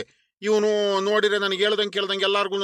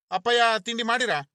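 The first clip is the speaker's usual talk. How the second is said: higher, gently coaxing question; coaxing younger brother; 5 semitones higher than usual. Acted. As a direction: brother coaxes his sulking elder, higher and coaxing. Younger brother asks sulking brother.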